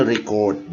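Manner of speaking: RECORD as a verb, stress on CORD; verb pronunciation. Shown as a demonstration. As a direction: show "record" as re-CORD inside the example. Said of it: "Contohnya misalnya".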